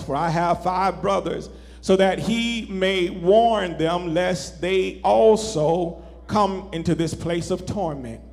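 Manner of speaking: measured, lifted Bible reading voice; solemn sermon scripture reading. Acted. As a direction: read the passage with weight and reverence.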